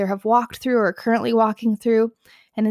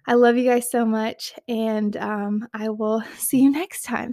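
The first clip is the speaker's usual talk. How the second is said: shaky voice. Real, not acted. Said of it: "Sorry for my tears and shaky voice and out of breathness".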